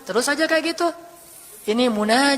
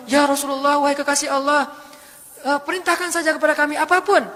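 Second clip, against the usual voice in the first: eager mountain angel; 4 semitones higher than usual. Acted. Mountain angel offers to crush Taif.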